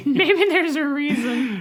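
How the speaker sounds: laughing through the words; slow, laughing it out. Real, not acted. Laughing at own joke.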